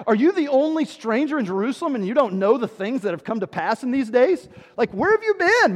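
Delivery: Dude, where have you been, man; with attitude. Retold or imitated. Cleopas scoffing at the stranger, with building attitude. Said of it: "saying this with a little bit of attitude".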